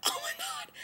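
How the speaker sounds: very high, soft squeal of shock; re-enacted stunned reaction. Host shows fans their reaction to the episode, stunned squeal. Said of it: "I was just like this".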